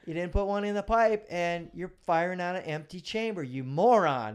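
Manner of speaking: officer scolding himself, mock furious; self-berating rant. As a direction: chew yourself out like a furious sergeant. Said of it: "And I'm thinking".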